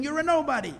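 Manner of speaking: high, loud mock scream; retold scream. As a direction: hurl it out as an acted defiant cry. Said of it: "he starts screaming".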